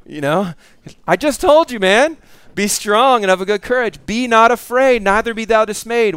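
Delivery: lightly voiced impatient God, repeating his order; a hint of a teasing, fed-up father; mock exasperated God.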